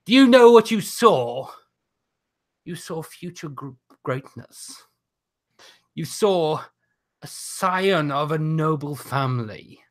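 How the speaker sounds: a lightly voiced arrogant noble heel; haughty aristocrat. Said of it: "I'm doing the wrong accent again".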